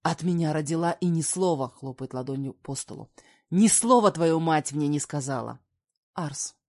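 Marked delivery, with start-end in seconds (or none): 0.0-1.7 louder, furious man; man yelling about hidden daughters, louder. Acted. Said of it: "также орёт на меня он". 3.5-5.6 man yelling, slapping table, louder. Acted. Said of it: "также орёт на меня он".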